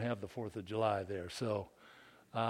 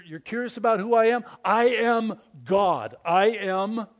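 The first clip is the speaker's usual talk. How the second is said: unapologetic claim; 7 semitones higher, 9 dB louder than usual. Acted. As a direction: declare it boldly as Jesus. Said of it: "I make a claim without, without apology".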